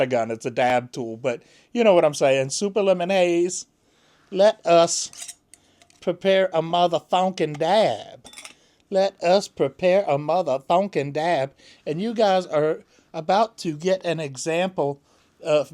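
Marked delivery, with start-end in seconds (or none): 4.3-11.5 mock ceremony.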